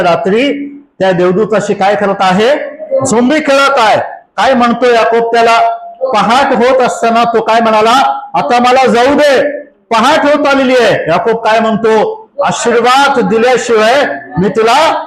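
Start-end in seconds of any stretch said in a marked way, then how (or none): 3.1-15.1 story preached in a raised voice; dramatic preaching. Real, not acted. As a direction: tell the wrestling story with rising urgency. (चढ्या स्वरात जोशपूर्ण कथन)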